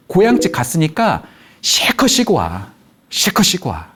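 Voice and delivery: slow, stretched-out acted wifely message; lightly voiced wife, drawing the words out; wife's reply. Wife texting husband at his parents' home, acted reply. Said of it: "아내가".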